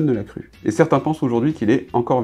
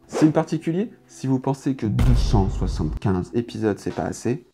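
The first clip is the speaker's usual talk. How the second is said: deep voice. Acted. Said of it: "Mais pourquoi tu fais la voix grave là".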